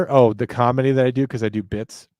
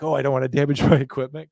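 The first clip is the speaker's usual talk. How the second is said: mock ginger; faster than usual. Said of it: "very ginger about it".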